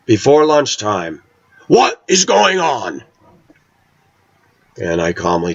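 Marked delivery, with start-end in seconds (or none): 1.7-3.0 high, slow, alarmed "what is going on"; alarmed question. Retold or imitated. Cousin bursting in on narrator, high slow alarmed demand. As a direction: voice the cousin's shocked demand, drawn out.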